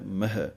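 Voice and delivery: ਮਹਿ with a light half-i ending; careful pronunciation. Shown as a demonstration. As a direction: model ਮਹਿ, not ਮਹੇ. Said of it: "ਅੱਧੀਆਂ ਦਲਾਈਆਂ ਦੀ ਆਵਾਜ਼ ਦੇਣੀ ਹੈ".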